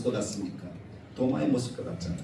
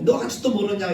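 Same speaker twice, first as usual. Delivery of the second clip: mild mock scolding; 6 semitones higher, 5 dB louder than usual. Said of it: "그렇게 큰 소리 치고".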